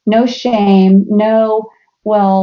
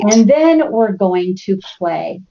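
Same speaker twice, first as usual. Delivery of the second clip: slow, emphatic chore announcement; mom's eager voice; 3 semitones lower, much slower than usual. Retold or imitated. Mom announcing Saturday chores to teens, slow and emphatic. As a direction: spell out the plan slowly. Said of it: "the fact that I was saying".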